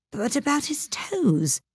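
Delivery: high, slow, insistent question; persistent. A narrator's reading. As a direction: press the question. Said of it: "the Mock Turtle persisted".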